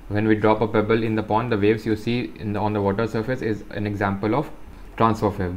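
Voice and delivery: slow, careful reading aloud; textbook reading. Acted. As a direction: read each phrase out slowly for students. Reads textbook text aloud. (धीमी, साफ़ किताबी पढ़ाई)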